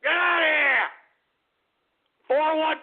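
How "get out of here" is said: rising shouts to get out; angry shout. Real, not acted. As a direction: shout him off the line. Throws caller off air.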